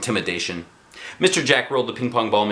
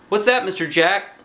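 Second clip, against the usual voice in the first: put-on kid's question; 9 semitones higher than usual. Kid asks teacher, high voice.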